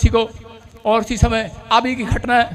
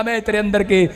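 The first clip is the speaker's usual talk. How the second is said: forceful preacher's scolding, building louder; rebuking; 6 dB louder than usual. Retold or imitated. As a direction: start firm, then swell into a commanding rebuke. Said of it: "अविश्वास को डांट रहा हूं". (ज़ोर देकर डांटते हुए)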